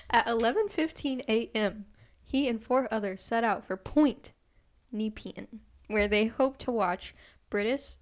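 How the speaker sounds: news anchor read; newscaster voice. Acted. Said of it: "Did I sound like a newscaster?".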